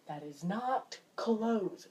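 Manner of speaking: slow, pointed mock complaint; exasperated correction. Telling family about the open door, slow and exasperated. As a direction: space out each word, mildly exasperated.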